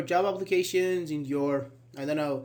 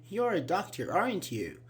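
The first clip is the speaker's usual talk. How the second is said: "aren't you" said to seek confirmation; rising tag question. Shown as a demonstration. Teacher guesses someone's job from a white coat, rising tag question. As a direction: ask for agreement on "aren't you". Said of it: "mostly it is rising".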